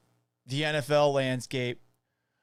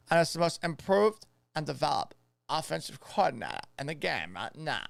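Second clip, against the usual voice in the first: put-on Boston accent. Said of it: "a Boston accent for this".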